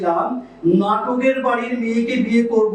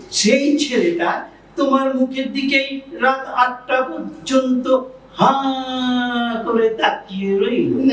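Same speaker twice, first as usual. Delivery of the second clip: mocking sarcasm. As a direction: needle the speaker by dragging out the words. Jealous husband mocks wife's story.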